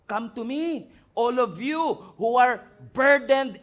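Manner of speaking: slow, swelling to loud; rising preacher's cry; building proclamation. Acted. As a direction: build the call to the weary.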